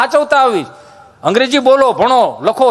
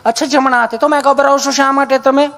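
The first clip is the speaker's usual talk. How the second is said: nurse voice; 4 semitones higher than usual. Retold or imitated. Nurse voiced in a retold joke.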